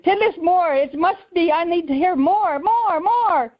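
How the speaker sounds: high, eager imitation of a Ugandan accent. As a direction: mimic an excited Ugandan man begging in his accent. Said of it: "he sure does have a funny accent".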